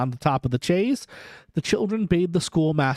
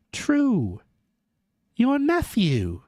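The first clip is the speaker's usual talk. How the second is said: higher, slow spirit voice; ghost's pointed reply; 7 semitones higher, much slower than usual. A narrator's reading. Ghost reminding Scrooge of his nephew, slow and higher. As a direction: let the ghost press the point slowly.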